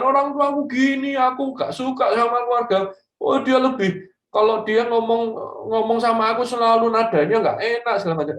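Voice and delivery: mock a kid whining about parents; complaining teen. Teen griping about parents online, mock whiny voice. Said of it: "di sosial media diceritakan".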